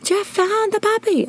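excited scream. Retold or imitated. Friend on the phone, shrieking that the puppy was found. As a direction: stretch the good news out, thrilled. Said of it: "she's screaming in the phone".

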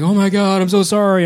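mock panicked apology. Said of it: "the guy was really freaking out".

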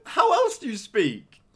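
high, laughing disbelief. Real, not acted. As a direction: ask it through laughter.

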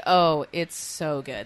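slow, loud, drawn-out relish; gushing approval. Shown as a demonstration. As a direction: savour it and stretch the praise out loud. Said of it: "I meant, like".

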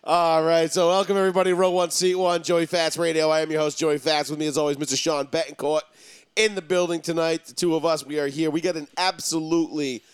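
brisk show-opening announcer delivery; punchy, rolling program intro; radio host intro. Real, not acted. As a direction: welcome the listeners like a radio host.

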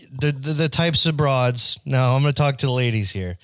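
a hint of a 1950s guy griping about dames; mock old-timey chauvinist. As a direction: play a hammed-up retro sexist, half joking. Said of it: "I'm just fucking around".

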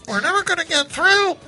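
action movie hero. Pretend. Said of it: "nineties action movie".

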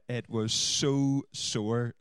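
slow, drawn-out pained groan on the words; lightly acted pain from a socket shock; remembered pain. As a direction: drag it out, wincing at the memory of the shock. Recalling electric shock pain.

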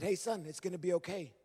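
father soothing his agitated son, softly; soft reassuring. Retold or imitated. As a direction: ease him down quietly. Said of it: "that soft response calmed him down".

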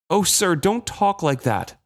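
high, slow, near tears; the mate pleads with his captain, near tears; tearful plea. Acted. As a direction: beg him tearfully.

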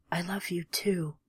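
a soft, breathless whisper of love. Acted. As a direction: breathe it out as he fades away. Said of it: "he whispered".

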